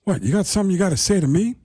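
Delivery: fast, confrontational Pacino challenge; Al Pacino impression. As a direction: push back at him, spoiling for a fight. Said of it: "He goes".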